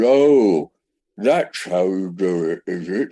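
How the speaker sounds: slurred realisation. Retold or imitated. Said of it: "my speech was slurred as well".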